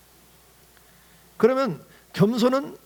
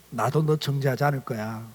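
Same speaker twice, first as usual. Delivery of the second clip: softer, lower, calm and kind; gentle forgiving Jesus; 7 semitones lower, 4 dB quieter than usual. Retold or imitated. Jesus quietly forgiving the woman, softly and gently. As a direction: speak pardon quietly, without blame.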